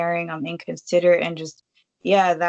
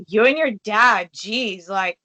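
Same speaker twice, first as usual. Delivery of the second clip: retold snap; 3 semitones higher, 4 dB louder than usual. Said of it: "I just, like, snapped and lost it".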